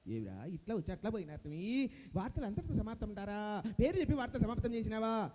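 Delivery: exasperated radio boss; Jayaprakash Reddy impression. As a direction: grumble in disbelief at the performer. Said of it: "Jayaprakash Reddy గారు".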